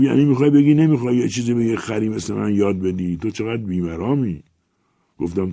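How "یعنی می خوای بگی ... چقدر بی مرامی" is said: higher, louder aggrieved rant; jealous old writer. Acted. Old writer rants jealously at the famous newcomer, high and loud. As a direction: pour out forty years of being ignored. Patron accuses, fast.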